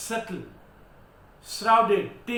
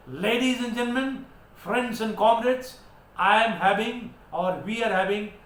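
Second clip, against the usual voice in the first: mock compere announcement. Shown as a demonstration. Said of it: "You say that".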